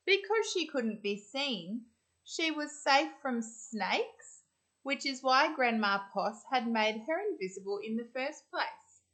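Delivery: put-on reading aloud to children; gentle picture-book reading; storybook narration. A narrator's reading. Teacher reading a picture book to the class.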